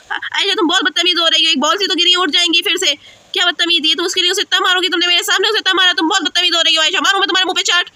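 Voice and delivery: lightly acted stern mum; scolding mother. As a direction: scold the child with mild annoyance. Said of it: "मम्मा मुझे बहुत डांटती है".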